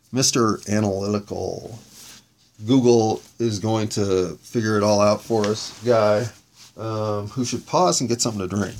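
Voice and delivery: cotton mouth, talking through a dry mouth; words sticky from a parched mouth. Real, not acted. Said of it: "I had cotton mouth".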